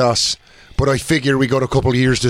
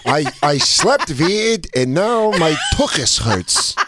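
put-on slow Yiddish-accented complaint; slow kvetch in a Yiddish accent. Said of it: "You did that amazing".

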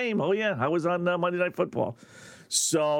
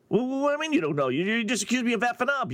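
higher-pitched, rushed comeback; mock indignant retort; 4 semitones higher, much faster than usual. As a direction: act out an affronted athlete challenging the reporter. Acts Draymond rebutting a reporter.

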